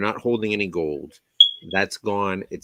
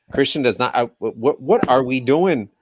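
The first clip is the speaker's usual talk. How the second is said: exasperated shout; 6 semitones higher, 10 dB louder than usual. Real, not acted. Exasperated co-host outburst.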